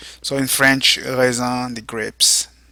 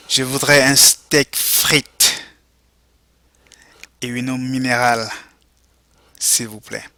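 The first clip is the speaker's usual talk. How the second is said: slow model reading. Shown as a demonstration. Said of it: "go ahead and repeat".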